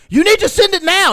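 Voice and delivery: high, shouted mock order; angry demand. Scammer pressing the man to pay, angry mock yell. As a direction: imitate an impatient scammer yelling.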